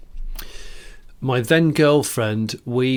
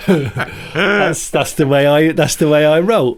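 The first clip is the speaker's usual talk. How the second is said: Bristol gangster impression; 5 semitones higher, 7 dB louder, slower than usual. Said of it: "a guy ... called, uh, Steve from Bristol".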